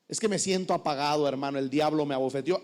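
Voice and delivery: droopy low imitation; self-pitying member. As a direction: whine that the devil did it. Member blames the devil.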